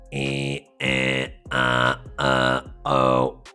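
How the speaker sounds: low buzzing vowels held; buzzer on vowels. Shown as a demonstration. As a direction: buzz through each vowel. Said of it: "hold that buzzer sound while you say the following vowels".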